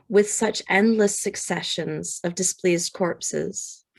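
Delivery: poem reading. Acted. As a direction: read it like a solemn poem. Reads a Whitman poem aloud.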